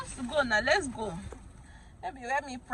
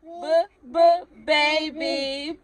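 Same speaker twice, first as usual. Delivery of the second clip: sounding out letters; 4 semitones higher, 4 dB louder, much slower than usual. Shown as a demonstration. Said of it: "sounding out letters for child".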